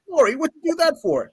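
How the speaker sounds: high-pitched mock indignation; indignant protest. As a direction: whine it like a soaked bully. Soaked bully protests to girl.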